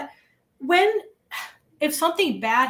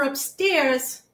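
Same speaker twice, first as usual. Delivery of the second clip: Massachusetts accent slipping out on "upstairs". Real, not acted. Former English teacher's accent slips on "upstairs", Massachusetts accent. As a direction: let a Massachusetts vowel creep into "upstairs". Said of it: "my Massachusetts is creeping back in".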